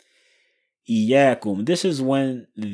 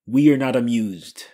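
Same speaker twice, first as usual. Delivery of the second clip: royal we; 2 semitones higher, 6 dB louder than usual. Retold or imitated. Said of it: "what do they say in the, uh, the movies".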